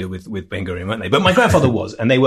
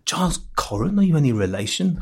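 retold again in a light old Jewish London accent, first word lifted; old Jewish London accent, asking the young critic if he's family; 3 semitones higher, 4 dB quieter than usual. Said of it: "it's a Coren accent".

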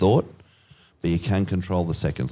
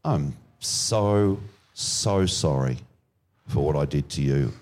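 mock apology; 5 semitones lower, 3 dB quieter than usual. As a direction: lay the fake contrition on thick. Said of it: "and say".

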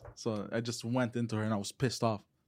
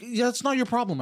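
higher, louder snap back at mom; mock loud retort; 11 semitones higher, 4 dB louder than usual. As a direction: brush her off loudly.

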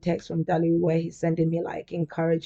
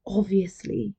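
whispered aside; slower than usual. Real, not acted.

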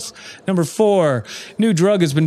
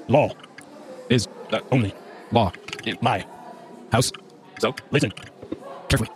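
dramatic recitation; 4 semitones lower, 6 dB quieter, faster than usual. Acted. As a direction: intone it like a decree.

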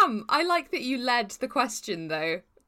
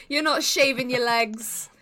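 laughing; 2 semitones higher, 4 dB louder than usual. Real, not acted. Laughs at own metaphor.

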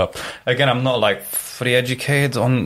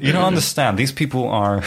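put-on American accent; 4 semitones higher than usual. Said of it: "I like the American accent".

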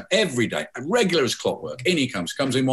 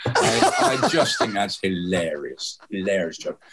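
laughing; 4 semitones lower, slower than usual. Real, not acted. Laughs at own joke.

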